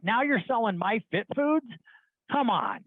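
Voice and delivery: baffled, mocking disbelief; incredulous scoff. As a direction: scoff at an absurd career move. Scoffs at the guy's choice.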